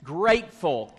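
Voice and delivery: slow, each word set apart, lean on be; slow emphatic demo. Shown as a demonstration. Pastor teaching children a motto, slow and deliberate. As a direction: model the phrase slowly for the kids to repeat. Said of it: "Can you say that with me?".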